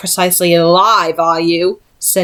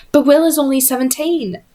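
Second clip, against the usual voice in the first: protesting; 6 semitones higher than usual. Acted. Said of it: "Charlotte protested".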